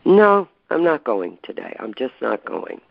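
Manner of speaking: emphatic then flat refusal; stubborn refusal. Retold or imitated. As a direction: dig in and refuse. Mother refusing to go out.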